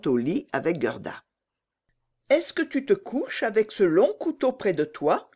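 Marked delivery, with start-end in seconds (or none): 2.3-5.3 worried. Acted. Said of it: "en jetant sur l'arme un regard inquiet".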